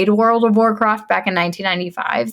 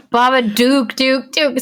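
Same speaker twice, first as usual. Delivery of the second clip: creepy raspy voice; 4 semitones higher, slower than usual. Retold or imitated. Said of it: "the creepiest voice I've ever heard".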